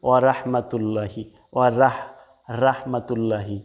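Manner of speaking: short "ওয়া রাহমাতুল্লাহি" with open "ra" and "lla"; wrong light rah. Shown as a demonstration. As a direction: say "ওয়া রাহমাতুল্লাহি" unstretched, thin r. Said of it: "রাহমাতুল্লাহ হবে না". (পাতলা রা দিয়ে ভুল উচ্চারণ)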